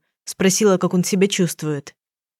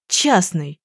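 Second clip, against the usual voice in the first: muffled gasp. A narrator's reading. Young man realising she is a private detective, a muffled gasp. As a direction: breathe out Частный as a dull, muffled gasp. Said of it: "Пронин тем временем глухо ахнул".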